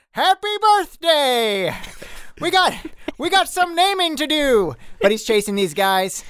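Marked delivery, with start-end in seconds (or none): 0.1-4.7 shouting back. Acted. Dak shouting back cheerfully at fleeing guys. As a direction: shout it back while running. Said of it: "Dak shouts back".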